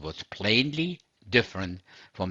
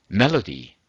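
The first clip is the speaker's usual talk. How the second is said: Melody. said loud with a falling close; loud announced heading; 7 dB louder than usual. Shown as a demonstration. Preacher announcing the topic to his congregation, loud and firm. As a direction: announce Melody. firmly like a title.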